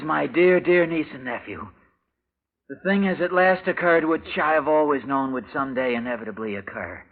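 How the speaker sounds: reading out the uncle's letter, quiet and measured. Acted. Reads uncle's letter aloud.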